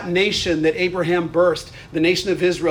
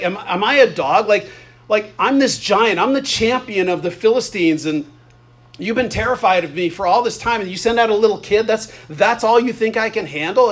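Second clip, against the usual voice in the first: higher, lightly acted indignation; offended giant; 3 semitones higher than usual. Goliath offended that a little kid is sent out, mildly indignant. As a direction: play mildly insulted, with incredulous questions. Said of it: "like he's offended".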